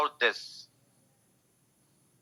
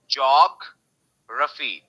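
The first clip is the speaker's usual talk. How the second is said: "geography" slowly, JOG held apart from ra-fee; stress on JOG; much slower than usual. Shown as a demonstration. Teacher shows where stress falls, geography slow with stressed JOG. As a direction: stretch and stress JOG in "geography", pause, then finish. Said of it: "यहाँ पे जॉग पे stress है".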